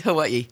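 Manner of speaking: "Hawaii" with a glottal stop before the final syllable. Shown as a demonstration. Guest showing how islanders say the name, glottal stop in "Hawaii". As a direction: break "Hawaii" with a catch in the throat before the last "i". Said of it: "She had a glottal stop".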